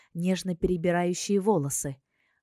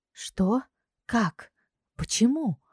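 ordinary talk, nothing marked

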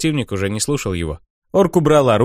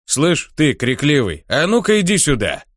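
barking orc; 4 semitones higher than usual. Acted. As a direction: bark it like a thug calling someone out. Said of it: "рявкнул он".

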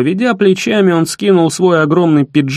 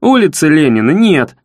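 firmer and louder. Acted. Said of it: "ещё твёрже и громче повторил я".

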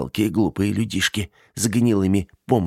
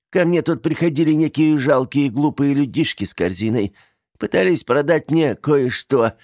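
higher, fond chatter; doting aunt; 6 semitones higher, 3 dB louder than usual. A narrator's reading. Aunt greeting niece come home from college. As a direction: welcome her home warmly.

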